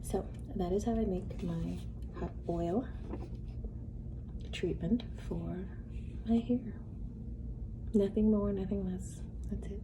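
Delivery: talking through a mouthful; chewing noisily. Real, not acted. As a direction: chew while you speak. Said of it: "I'm sorry I'm eating".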